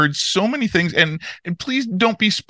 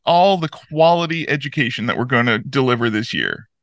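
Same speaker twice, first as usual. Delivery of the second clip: businesslike. Acted. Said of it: "You sound very businesslike".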